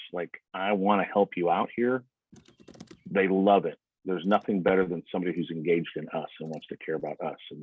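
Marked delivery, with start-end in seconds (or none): 0.5-2.0 empathetic humble tone. Shown as a demonstration. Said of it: "empathetic, humble, curious".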